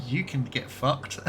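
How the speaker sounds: slow, amused mock insult; playful laughing put-down; laughing retort. Real, not acted. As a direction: tell a friend off while laughing.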